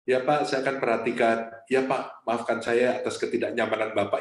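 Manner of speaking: patient, gentle apology with a smile; smiling calm apology. Retold or imitated. Barista keeps apologising with a smile to the customer, calm and gentle. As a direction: stay calm and repeat the apology kindly. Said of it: "Ini barista sambil senyum loh".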